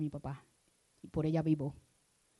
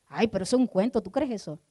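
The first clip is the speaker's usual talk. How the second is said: un toque de incrédulo, algo más fuerte; escéptico burlón; 4 semitones higher, 6 dB louder than usual. Acted. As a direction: imita ligeramente a alguien que se burla. Voicing a skeptic. (el pastor imita a un incrédulo, con leve burla)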